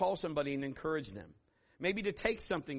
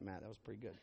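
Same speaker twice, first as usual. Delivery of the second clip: ordinary talk, nothing marked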